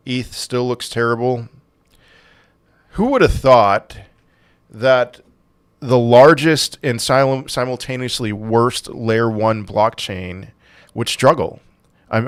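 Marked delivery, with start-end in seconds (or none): 2.9-11.6 slow, dry sarcasm; drawn-out mock wonder; sarcastic. Real, not acted. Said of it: "I'm totally being, uh, sarcastic there".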